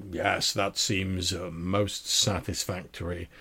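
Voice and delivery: slow, measured customer voice; lightly voiced deep-voiced man, drawn out. Customer approving his outfit to the tailor, slow deep-voiced man. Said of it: "this deep-voiced man".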